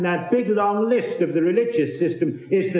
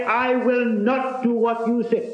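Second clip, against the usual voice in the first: defiant refusal; 6 semitones higher than usual. Retold or imitated. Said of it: "He didn't say".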